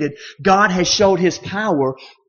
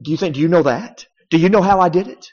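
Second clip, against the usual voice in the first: sarcastic. Retold or imitated. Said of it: "almost sarcastically there".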